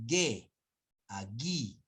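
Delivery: "ge" and "gui" with plain hard G; hard G straight into the vowel, no W; silent U. Shown as a demonstration. Teacher contrasting with dieresis, demonstrating. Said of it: "Muy diferente decir".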